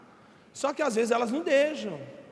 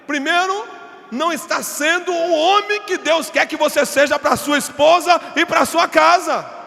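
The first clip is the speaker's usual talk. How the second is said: loud, higher, slowing preacher's shout; preaching at full force; 5 semitones higher, 9 dB louder than usual. Acted. Pastor rebuking husbands, loud slow preaching. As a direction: hammer it home to the men.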